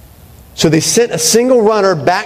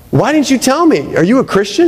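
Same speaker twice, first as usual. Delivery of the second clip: mock angry Elaine; 8 semitones higher than usual. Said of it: "she gets mad at him".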